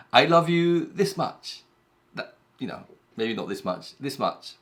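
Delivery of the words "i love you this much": higher, slow and sweet, like a fond partner; sweet lover's answer. Acted. Partner answering a loved one, sweetly and slowly. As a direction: coo it out slowly to your sweetheart. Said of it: "the other person might answer by saying".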